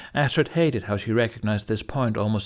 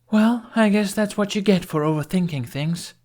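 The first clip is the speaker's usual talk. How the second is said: higher, snide retort; mocking jab; 10 semitones higher, 4 dB louder than usual. A narrator's reading. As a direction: toss it off with a sneer. Astrid's jab after feeling attacked.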